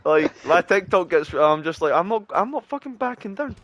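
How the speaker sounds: high and loud, laughing through the words; laughing excitedly. Real, not acted. Gamer laughs loudly while telling his friend about his TikTok.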